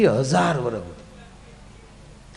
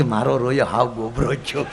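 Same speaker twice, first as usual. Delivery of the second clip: mock grumbling Parvati; 7 semitones lower, 5 dB quieter than usual. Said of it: "Parvati કે".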